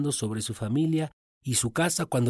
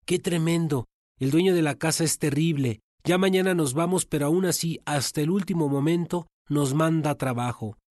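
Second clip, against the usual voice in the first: grumbling servants; 4 semitones higher than usual. Acted. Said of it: "ellos murmuraban".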